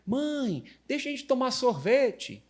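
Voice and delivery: put-on high pleading kid voice; mimicking a daughter asking for ice cream; child's begging voice. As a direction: beg mom like a little girl. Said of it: "A Flávia falou que".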